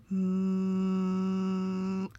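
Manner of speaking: sewing machine noise. Pretend. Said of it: "I'm gonna make some sewing machine noises now".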